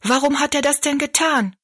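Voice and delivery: high, wondering question; amazed exclamation. A narrator's reading. Betty Ann asking why he did it, amazed. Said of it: "rief Betty Ann".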